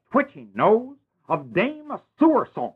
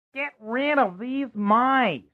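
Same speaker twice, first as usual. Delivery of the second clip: king's command; 6 semitones higher, slower than usual. Acted. King orders Drosselmeyer.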